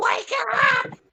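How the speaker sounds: shrieking, high and loud. Narrating a scene, voicing a cry from the big wagon in a screeching voice. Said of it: "a screeching voice going".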